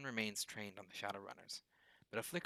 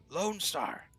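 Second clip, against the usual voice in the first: "Lone Star!" cried higher and loud; hoarse roar; 8 semitones higher, 8 dB louder than usual. A narrator's reading. Duncan shouts his badge name again, higher and louder. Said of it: "His voice comes out in a hoarse roar".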